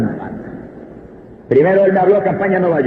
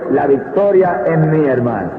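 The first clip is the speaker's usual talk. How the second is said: calm certainty; 4 semitones lower, slower than usual. Retold or imitated. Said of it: "le he dicho".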